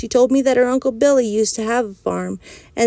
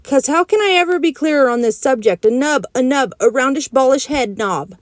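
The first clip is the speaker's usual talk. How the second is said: worked-up insisting; 4 semitones higher than usual. Acted. Junie B argues with Mother.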